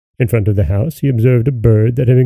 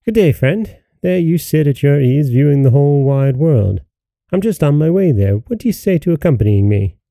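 cheerful greeting; 2 semitones higher than usual. Acted. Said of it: "greeting him cheerfully".

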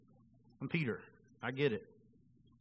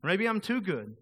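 inner voice; 4 semitones higher, 3 dB louder than usual. Acted. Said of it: "the voice that we were talking about".

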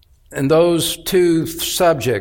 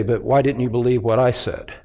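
lower, restrained voice of God questioning someone; lightly voiced divine rebuke, pitched down; God's reproach; 5 semitones lower than usual. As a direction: voice God calmly calling someone to account. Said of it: "God would be well within his rights to say".

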